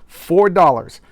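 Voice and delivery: indignant. Real, not acted. Ranting about comic price.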